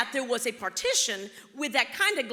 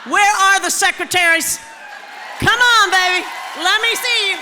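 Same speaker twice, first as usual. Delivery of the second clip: calling out; 8 semitones higher, 13 dB louder than usual. Real, not acted. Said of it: "calling out to the audience".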